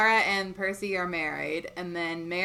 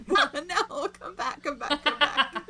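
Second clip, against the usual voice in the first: laughing; 5 semitones higher, slower than usual. Real, not acted. Calling cohost back, laughing.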